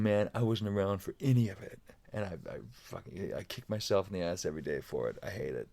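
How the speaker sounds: low, subdued retelling of regret; regretful confession. Retold or imitated. Drummer friend admits he missed his son growing up, quietly regretful. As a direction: quietly own up to regret, voice sinking.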